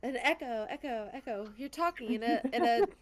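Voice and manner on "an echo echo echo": fading echo imitation. Mimicking the echo in the cellar.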